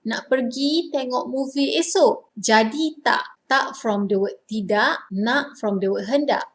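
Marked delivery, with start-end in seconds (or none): 0.1-2.3 casual Malay question checking plans; asking for confirmation. Shown as a demonstration. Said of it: "This is how you ask when you want confirmation". 2.3-3.4 clipped casual Jadi tak; quick check if it's still on; short confirmation check. Shown as a demonstration. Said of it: "This is how you ask when you want confirmation".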